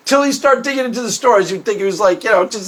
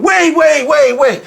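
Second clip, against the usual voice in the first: higher, insistent wait wait; mock urgent interruption; 5 semitones higher, 4 dB louder, slower than usual. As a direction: cut them off in an imitated rush. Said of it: "charges it up with all this emotional significance".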